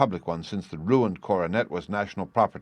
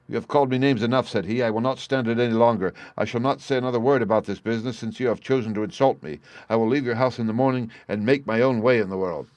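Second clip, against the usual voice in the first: louder, higher wounded defiance; indignant; 3 semitones higher, 4 dB louder than usual. Acted. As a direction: refuse to take more insults. Insulted son refuses, storming out.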